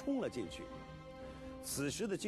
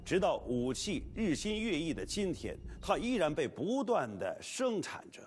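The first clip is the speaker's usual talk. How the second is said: lively documentary narration; 4 dB louder than usual. Acted.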